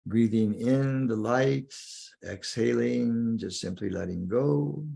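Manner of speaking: guided meditation. Acted. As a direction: guide the listener inward, lingering on key words.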